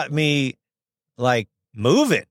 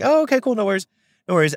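high, chirpy okay-cool; imitating a light upbeat reply, much higher; breezy mock cheer; 8 semitones higher, much faster than usual. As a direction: brush it off with bright fake ease. Brian's breezy reply retold.

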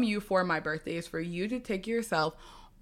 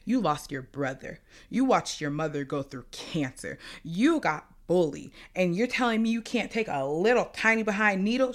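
stern mom; 2 semitones lower than usual. Retold or imitated. Voicing mom's tough love.

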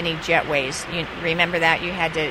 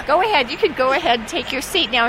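insistent urging; 7 semitones higher, 4 dB louder, faster than usual. Retold or imitated. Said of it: "And I'm going".

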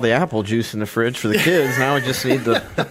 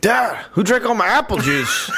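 put-on kid voice; 7 semitones higher than usual. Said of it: "Drexler would be like".

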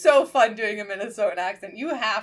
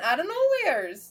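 stretched, higher Minnesotan lilt; Minnesotan accent; 6 semitones higher than usual. Shown as a demonstration. Showing how they spring it on people, Minnesotan accent. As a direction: draw it out in a playful Minnesotan accent. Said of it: "hit people with a Minnesotan accent".

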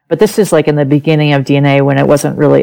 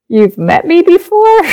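much higher, incredulous question; stunned disbelief. Retold or imitated. Recalling meeting Ray's wife who says she knew her as a toddler, stunned disbelief. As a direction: ask it like the ground just shifted under you.

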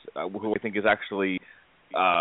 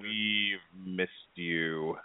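very slow and much softer, coldly menacing; Agent Smith impression; 2 semitones lower, 11 dB quieter, much slower than usual. Welcoming the co-host back the way Agent Smith greets Neo, slow and hushed. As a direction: stretch every word like a patient machine villain. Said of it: "Agent Smith. Hugo Weaving".

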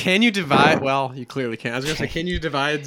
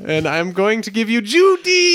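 slow, drawn-out big reveal; dramatic announcement; 7 semitones higher, 3 dB louder than usual. Acted. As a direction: announce it like a game show host.

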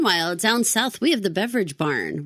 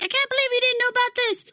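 mock listener; faster than usual. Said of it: "wants to write in and be like".

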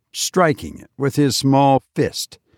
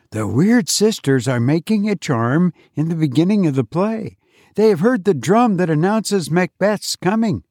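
eager pupil; 6 semitones higher than usual. A narrator's reading. Pupil Tom answers teacher.

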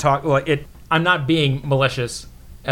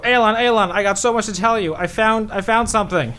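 excited; 6 semitones higher than usual. Acted. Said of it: "run up to Alon and go".

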